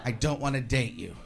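dropped low and soft; mock gentle letdown. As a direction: let them down quietly. Girl's letdown after the compliments.

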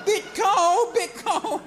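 high, laughing complaint; patient complaining. Retold or imitated. Patient with the funnel, high laughing complaint. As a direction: squeak it out, half laughing.

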